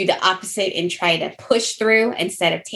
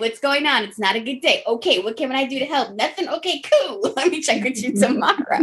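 playful mock check-in; 5 semitones higher than usual. Acts out a check-in call.

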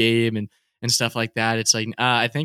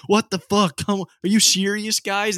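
high, whiny imitation of an outraged golfer; mock whiny outrage; 8 semitones higher, slower than usual. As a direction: complain high-pitched, as if the world wronged you. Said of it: "he's like".

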